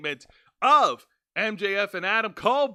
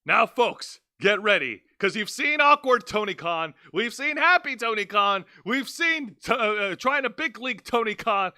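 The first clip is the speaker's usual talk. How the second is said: announcer hype; 2 semitones higher, 3 dB louder than usual. Acted. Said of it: "hyping up the reveal".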